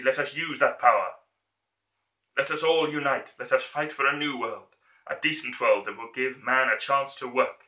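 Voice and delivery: building to a rousing shout; dictator speech. Acted. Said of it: "that version of his speech".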